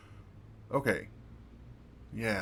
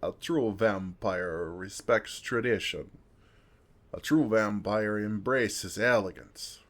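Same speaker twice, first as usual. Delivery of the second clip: mock pompous elder; 5 dB louder than usual. Parroting elders' vampire lectures.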